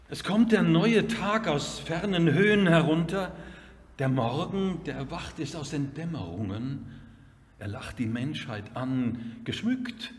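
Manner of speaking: ringing opening that settles gently; measured verse with clear pauses; poem recitation. Acted. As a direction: declaim the first line strongly, then ease down.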